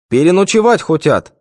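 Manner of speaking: subordinate reply. A narrator's reading. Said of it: "подчинённо отозвался Волнухин".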